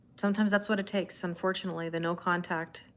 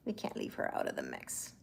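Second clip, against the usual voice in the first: deep playful voice; 12 dB quieter than usual. Shown as a demonstration. Repeats line in new voices.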